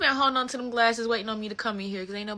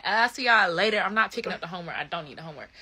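gloating goodbye; 5 dB louder than usual. Retold or imitated. Gloating to class while leaving.

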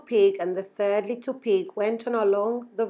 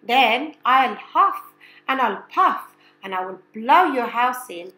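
louder wolf threat; 2 semitones higher, 6 dB louder than usual. Acted. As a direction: threaten like the big bad wolf. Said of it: "said the wolf".

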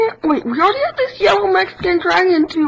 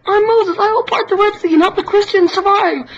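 Moses voice; 3 semitones higher, faster than usual. Pretend. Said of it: "One hundred impressions".

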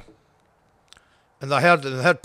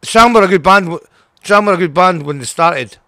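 louder, heated outburst about a singer he despises; heated rant; 6 dB louder than usual. Real, not acted. Angry rant about a former singer.

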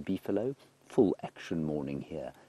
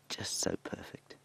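hushed, awed whisper; 4 dB quieter than usual. Real, not acted. Guide whispering near feeding leopard.

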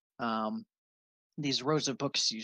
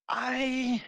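put-on old wizard; 10 semitones higher, 3 dB louder, much slower than usual. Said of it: "turns around and says".

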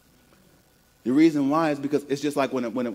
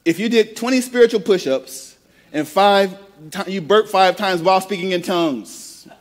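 animated; 5 semitones higher, 4 dB louder than usual. Acted. Preacher joking exaggeration.

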